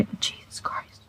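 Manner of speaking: breathy whispered aside, almost silent; whispered oath. Real, not acted. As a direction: drop to a stunned whisper. Reacting in shock while reading.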